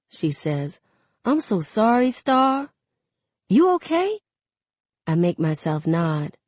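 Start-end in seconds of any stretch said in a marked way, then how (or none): 1.2-4.2 put-on high, sympathetic girl's voice; sympathetic friend. A narrator's reading. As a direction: console a friend, lifting into a question. Kenya offers condolences.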